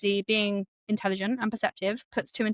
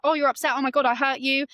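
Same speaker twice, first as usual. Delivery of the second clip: higher-pitched retold concern; mock alarm; 5 semitones higher than usual. Retelling a friend seeing she is upset, mock alarm. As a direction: lightly act out alarmed realisation.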